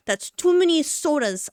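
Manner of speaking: playful self-reproach about the sodas; mock self-scolding. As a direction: tell yourself off in jest. Scolding herself over soda.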